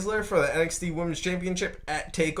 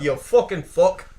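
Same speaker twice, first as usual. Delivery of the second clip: mock Irish accent; 3 dB louder than usual. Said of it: "Hey, Finn, calm down".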